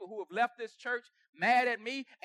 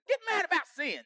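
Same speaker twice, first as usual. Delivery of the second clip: preaching shout; 5 semitones higher than usual. Acted. Pastor urging the congregation to be angry at sin, shouting. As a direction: shout it out to the church.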